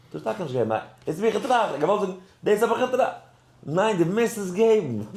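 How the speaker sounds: high, loud insistence; heated retold argument. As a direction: act out an exasperated ruling at high pitch. Acted argument with the Rebbe.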